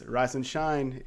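drawn out, slow call; slow wake-up call. Retold or imitated. Coach waking the team at dawn, slow drawn-out call. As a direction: stretch it out to rouse them.

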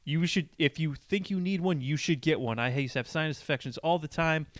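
mildly pushy retold testimonial; aggressive, imitated. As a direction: imitate a stranger insisting on her advice. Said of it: "aggressively, like".

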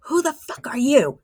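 breathy whisper of the song line; whispered lyric. Retold or imitated. Retelling the on-air lyric, whispered. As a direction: hush it like a secret.

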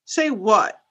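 British "what" with a short open "o"; British accent. Shown as a demonstration. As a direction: demo British "what", crisp short vowel. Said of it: "we'll start with something small".

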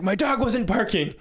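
high-pitched protesting imitation; retold whiny-high objection; mock indignant denial. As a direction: protest like a defensive caller.

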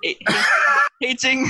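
put-on high Korean accent saying "aging" as hazing; bad Korean accent. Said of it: "a bad Korean accent".

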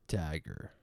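Tager as "TAG-er"; trying a pronunciation. Shown as a demonstration. Host sounding out a model's surname, trying a pronunciation. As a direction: say Tager to rhyme with "bagger".

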